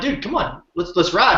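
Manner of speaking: egging a friend on to pick up the pace; impatient urging. Retold or imitated. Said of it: "I'm like".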